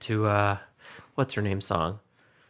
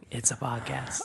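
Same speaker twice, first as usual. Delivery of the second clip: whispered; 9 dB quieter than usual. Pretend. Whispered reply.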